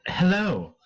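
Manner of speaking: a hint of a high cat voice; kitten voice. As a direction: mimic the cat's greeting. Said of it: "in the cat's voice".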